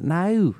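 high No with Jersey O; a light Jersey No. Shown as a demonstration. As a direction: stretch the O in No Jersey-style. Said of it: "certain O word like that".

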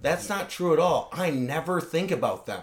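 softly voiced presidential impression; George W. Bush. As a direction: imitate a comedian doing the president. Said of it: "where he was George W. Bush".

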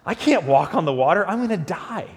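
acted dawning panic, pitch jumping up; sudden panic. Peter realizing he is out on the water, acted panic. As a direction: play a sudden mock realization of danger. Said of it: "Peter all of a sudden has this moment".

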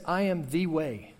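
slow, weighty I AM THE WAY; slow deliberate reading with I am set apart; stress on I AM. Shown as a demonstration. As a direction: lean on every word of I am the way. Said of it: "Notice it says".

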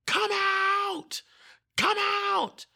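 high, full-force exorcist's shout; yelling. Retold or imitated. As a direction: yell it as a command to a demon. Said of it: "I just start yelling".

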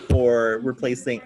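thump of a tapped microphone; tapping the mic. Real, not acted. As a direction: bump the mic mid-word. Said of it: "sorry, I just tapped the microphone".

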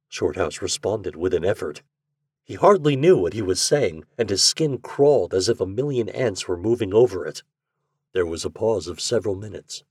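low, measured storybook reading; story narration. A narrator's reading. Narrator sets the fireside scene, measured story narration. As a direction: read the tale in an even, subdued tone.

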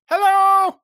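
high, loud squeaky greeting; tiny mushroom voice. Acted. Mushroom sprouting from moss calls out a high squeaky hello.

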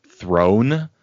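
"Throne" said as one clear syllable; name pronunciation. Shown as a demonstration. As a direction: say "Throne" plainly, as in a king's throne. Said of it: "while her name is spelled Theron".

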